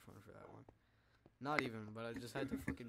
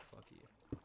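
deep pitch shifted; 9 dB quieter than usual. Pretend. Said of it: "why am I so manly".

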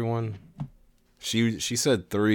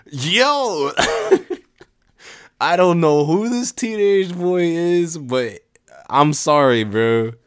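put-on awkward teen boy; 9 semitones higher, 7 dB louder, slower than usual. Greets the rolled teen boy.

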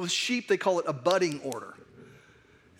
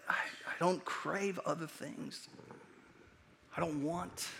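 softly, intimately; 3 semitones lower, 12 dB quieter than usual. Real, not acted. Sermon, intimate confession.

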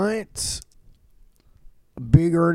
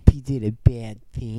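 slow deadpan; 3 semitones lower than usual. Pretend. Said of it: "I'm gonna say it again".

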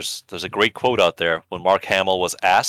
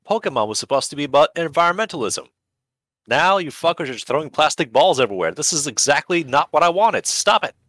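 high-pitched indignant creator rant; mock outrage; 7 semitones higher than usual. Originator scolding those who ruined his idea, indignant. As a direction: protest with rising exasperation to a high finish.

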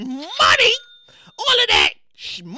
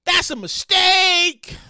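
bank breaking bad news; slower than usual. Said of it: "the bank was like".

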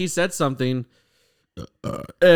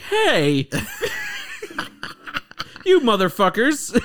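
laughing mock shout; 13 semitones higher, slower than usual. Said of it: "then be like".

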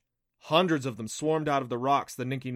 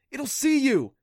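high, forceful, strained warning; strangled whisper; 13 semitones higher, 8 dB louder than usual. A narrator's reading. Adam afraid the beast spots Clancy, strangled whisper. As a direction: hiss the warning through a tight throat. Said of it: "demanded in a strangled whisper".

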